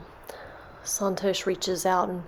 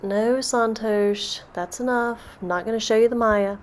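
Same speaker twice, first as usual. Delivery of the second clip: firm refusal; 2 semitones higher than usual. Acted. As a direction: put a stop to the begging. Krishna refuses Santosh's repeated plea.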